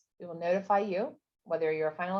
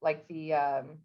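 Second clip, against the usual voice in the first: stumbling over words; can't get the words out; tongue-tied. Real, not acted. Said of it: "I can't even talk right now".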